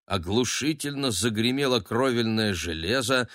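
usual speaking voice

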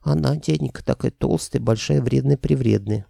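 put-on squeaky whining girl. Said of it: "завыла писклявым голосом".

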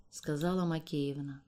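usual speaking voice

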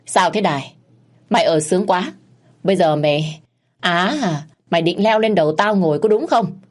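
1 stern scolding. Acted. Father-in-law scolds the wife.

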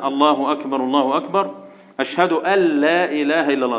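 "أن لا" merged as al-la; correct call to prayer. Shown as a demonstration. Teacher demonstrating the adhan to pupils, "أن لا" merged as al-la. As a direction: drop the n of "أن" into a doubled l. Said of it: "يبقى هنا تقول إيه الأذان".

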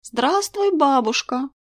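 high, sing-song mimicking of the greeting; mocking copy. A narrator's reading. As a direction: parrot "Здравствуй, бабушка!" back high and mocking. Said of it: "Маша закатила глаза и с той же интонацией проговорила". (передразнивая высоким голосом «Здравствуй, бабушка!»)

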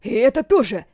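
alarmed soldier's cry; shouting. Acted. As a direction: call it out in alarm. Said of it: "закричал второй".

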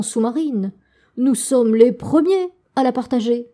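bursting with the news; very agitated. Acted. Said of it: "très agité et s'époumonait".

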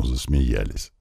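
usual speaking voice

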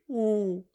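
long high sob of a wail. A narrator's reading. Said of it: "разрыдалась прямо в трубку".

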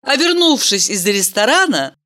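usual speaking voice

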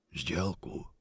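quiet hissed creature question; hissing. Acted. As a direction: hiss it like a monster. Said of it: "прошипел голос".

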